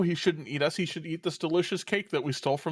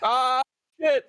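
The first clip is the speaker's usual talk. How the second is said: loud startled curse; 6 semitones higher, 5 dB louder than usual. Real, not acted. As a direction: blurt it out in shock. Witch appears.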